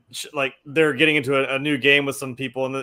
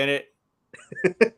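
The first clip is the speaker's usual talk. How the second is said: put-on British sign-off; cheeky fake British accent; mock British accent; 4 semitones higher than usual. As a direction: play a hammed-up Brit for a show intro. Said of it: "I'd just be like".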